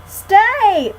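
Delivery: loud, high command; shouting. A narrator's reading. Annie shouting at the fleeing puppy to stay. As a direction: bark the word at a dog. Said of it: "shouted Annie".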